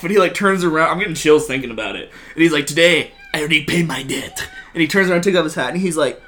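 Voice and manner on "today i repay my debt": solemn Puss line. Retold or imitated.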